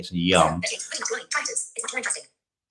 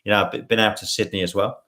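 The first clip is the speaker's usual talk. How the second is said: put-on Australian accent. Shown as a demonstration. Host showing viewers one more voice, Australian accent. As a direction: chat in an Aussie accent. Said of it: "what Australian accent?".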